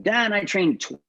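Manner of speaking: pitched well up, eager and sure; earnest student. Retold or imitated. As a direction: blurt it out proudly to the teacher. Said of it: "he was like".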